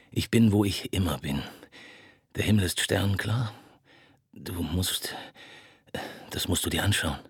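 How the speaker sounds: slurring low, trailing into whispers; a lonely drunk reaching out; low, drunk and bitter. Acted. Ferris, drunk, rambles bitterly to Marthaler on the phone.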